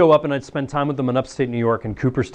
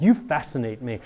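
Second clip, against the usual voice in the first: sincere; 3 semitones lower, 4 dB quieter than usual. Shown as a demonstration. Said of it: "actually, we mean it".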